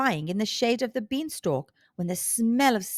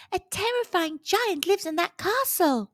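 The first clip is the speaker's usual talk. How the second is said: higher fairy voice, grave warning; fairy's warning; 8 semitones higher than usual. A narrator's reading. Fairy warns Jack about the giant, grave. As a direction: caution him like a tiny guardian. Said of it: "warned the fairy".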